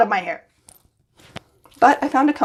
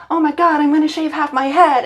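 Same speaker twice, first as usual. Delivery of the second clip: imitating her own giddy announcement, higher; bubbly mock excitement; excited; 5 semitones higher, 4 dB louder than usual. Telling coworkers about her haircut, excited. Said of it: "I've been telling everybody at work".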